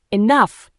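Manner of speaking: loud authoritative snap; snapped shout. A narrator's reading. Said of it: "he snapped".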